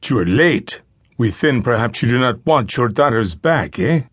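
lightly voiced kidnapper with a Spanish accent; Spanish-accented English. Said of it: "He addressed the fathers in accented English".

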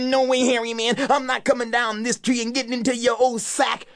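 put-on a boy refusing from the treetop; young Wally, stubborn and sure; defiant boy. Wally's voice up the tree.

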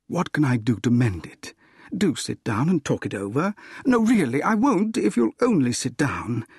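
earnest appeal rising in pitch; coaxing. Acted. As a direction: coax her, climbing to an urgent promise. Suitor coaxes her to sit down.

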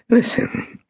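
breathy urgent whisper. A narrator's reading. Marcus whispering to the dying Golda, hushed. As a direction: lean in and whisper it. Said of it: "Marcus whispered".

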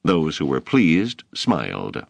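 usual speaking voice

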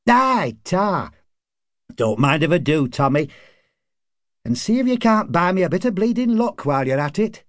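high-pitched, cheerful drinking pal in dialect; pub card player. A narrator's reading. Man accepting his friend's offer of a pint, high character voice.

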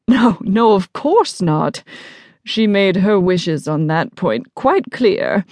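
lofty denial, slowing after a startled start; haughty, mildly startled. Acted. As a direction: deny it hastily, then slow down loftily. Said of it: "looks almost genuinely startled".

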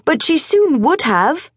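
put-on high, pressing boyish voice; urging boy. A narrator's reading. Morris urges his father, high and insistent. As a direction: push the point like an eager boy. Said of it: "urged Morris".

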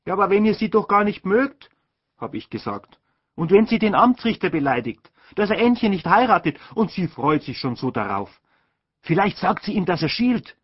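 put-on a boy pleading his case; boy's protest. A narrator's reading. Ludwig arguing with his mother, high and cheeky.

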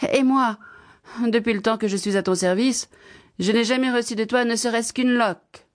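indignant servant. Acted. The servant joins in unasked against Baba Yaga, indignant voice. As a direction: pipe up with a long-held grievance. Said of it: "dit la servante".

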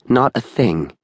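tense woman, lightly hoarse. A narrator's reading. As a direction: deny it with a slightly hoarse voice. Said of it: "she said hoarsely".

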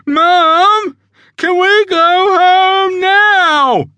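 put-on drawn-out high childish plea; whiny young zebra. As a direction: beg mum to leave. Child whining to mum.

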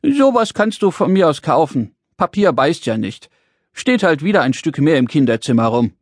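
little man regaining his composure, lightly voiced; firm again. Little man relieved paper cannot bite, firm again. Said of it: "seine Stimme wurde wieder fest".

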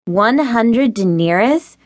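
slow, rising, outraged disbelief; can't believe the price, slowly. Acted. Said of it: "Rihanna gasped in outrage".

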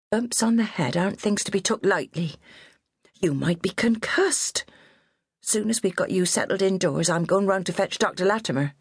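high, bossy West Country nanny voice; scolding old countrywoman. A narrator's reading. Old nurse scolding her fallen charge, high and bossy. Minnie insists on the doctor.

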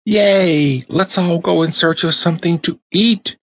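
high, bright chorus of eager dolls; excited dollies crying out. A narrator's reading. Dollies cheer to each other, high and excited. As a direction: cheer it out like thrilled toys. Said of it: "cried all the other dollies".

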